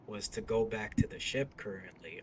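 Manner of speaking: gaslighting. Acted. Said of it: "I'm gaslighting him".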